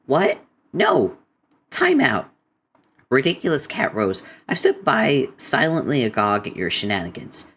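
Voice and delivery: high-pitched outraged interruption; hammed-up indignation, pitch jumping high; indignant objection. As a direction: cut in, aghast, to correct them. Acted indignant interruption of the speaker.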